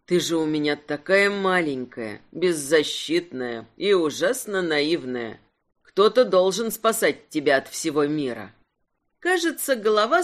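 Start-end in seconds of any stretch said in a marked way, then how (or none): 0.1-8.5 serious man. Acted. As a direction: reassure her gently and low. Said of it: "серьёзно подтвердил он".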